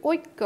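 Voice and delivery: ঐক্য said as oik-ko, k doubled; doubled k pronunciation. Shown as a demonstration. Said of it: "ককে আমরা দুইবার উচ্চারণ করছি".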